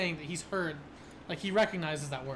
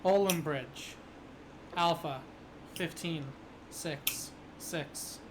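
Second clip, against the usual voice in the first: robotic monotone radio voice; numbers station monotone; slower than usual. Acted. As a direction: read the numbers flat like a machine. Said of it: "this very robotic, you know, monotone voice".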